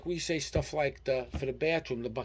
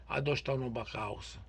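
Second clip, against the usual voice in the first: Italian American dialect; 4 dB quieter than usual. Shown as a demonstration. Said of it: "Italian American dialect".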